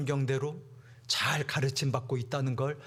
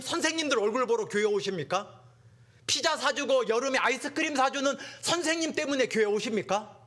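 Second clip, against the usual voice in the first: fiery preaching; 10 semitones higher than usual. Real, not acted. Preaching climax.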